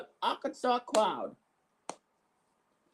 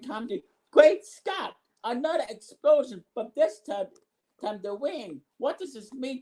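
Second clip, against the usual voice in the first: shocked commentator; 2 semitones higher than usual. Pretend. Commentators react to second explosion.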